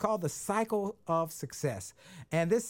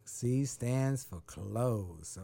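very slow, lower echo; slow repeat; 6 semitones lower, 4 dB quieter, much slower than usual. Shown as a demonstration. Host repeating guest's words back slowly.

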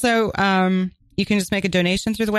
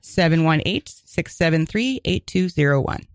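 number read out in careful groups; measured phone-number readout; a little slower. Real, not acted. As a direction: repeat it slightly slower, group by group. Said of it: "a little slower".

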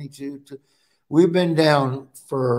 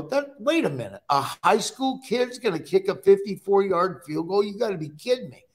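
disbelief; 5 semitones higher than usual. Retold or imitated. Retold disbelief to wife.

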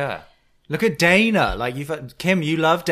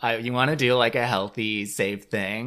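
mock Dana pleading; 7 dB louder than usual. Podcaster imitates Dana gushing at Kim about a vacay. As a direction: gush it breathlessly, cracking up.

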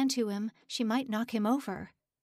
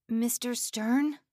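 slow call across a garden; 3 semitones higher, 4 dB louder, slower than usual. A narrator's reading. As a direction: call out, searching. Distant voice calling out.

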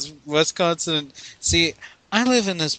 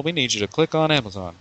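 mock shouted plug; faster than usual. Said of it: "plug shouted".

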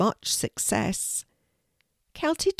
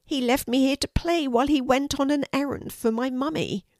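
put-on high, small childlike voice; little dragon; 7 semitones higher, faster than usual. A narrator's reading. Norman explains daddy's errand, little dragon voice.

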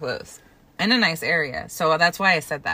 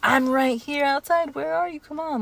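imitating the date; 9 semitones higher than usual. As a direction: pitch it up and drag it as the puzzled guy. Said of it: "He's like".

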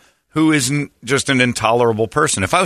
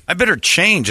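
higher, self-pitying realization; rejected girl voice; 7 semitones higher than usual. Retold or imitated. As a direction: play a sulky rejected girl. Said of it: "you assess your personality and you go".

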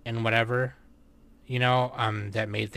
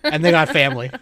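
action hero voice; 6 semitones higher, 12 dB louder than usual. Pretend. Continuing Vin Diesel joke.

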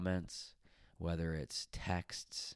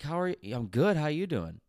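high, loud mock reply from the pushy stranger; hammed-up stranger brushing her off; imitating the guy; 10 semitones higher, 9 dB louder than usual. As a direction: parrot back his breezy dismissive answer. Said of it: "He's like".

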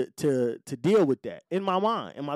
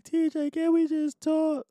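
much higher, slow mock girlfriend plea; pleading ex; 14 semitones higher than usual. Tearful ex begging him in the parking lot, mock high plea. Ex waiting crying, begs to talk.

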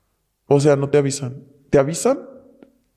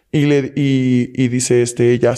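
ordinary delivery

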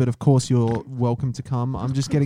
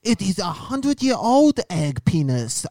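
mock Chinese accent; 4 semitones higher than usual. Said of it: "co-host from China".

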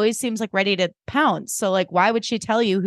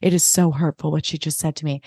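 self-pitying drone; 4 semitones lower than usual. Retold or imitated. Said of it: "Lou just keeps going".

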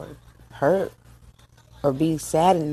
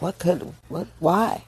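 real tears breaking through a trembling, high why; 3 semitones higher, 4 dB quieter, slower than usual. Real, not acted. A grieving mother asks why her child's peers die, choking up. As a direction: voice cracks into a choked, pleading why. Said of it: "get that emotional".

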